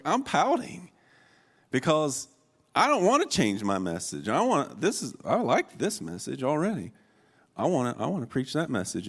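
high, whiny pout; mock-petulant protest with big pitch swoops. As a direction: complain like a sulking kid. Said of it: "I'm just gonna pout".

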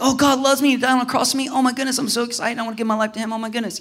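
hammed-up giddy new believer; excited. New believer when God first speaks, acted excitement. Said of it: "You're excited when you're like".

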